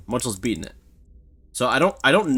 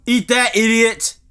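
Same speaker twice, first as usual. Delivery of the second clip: loud, high gloating; triumphant taunt; 6 semitones higher, 5 dB louder, slower than usual. Real, not acted. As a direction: crow over a beaten enemy. Gloats at beating the threat.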